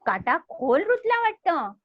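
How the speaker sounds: light parrot voice in a read-aloud; a hint of a worried parrot; second parrot. Shown as a demonstration. Teacher voices the second parrot for children, lightly. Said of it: "ये दूसरा तोता कह रहा है".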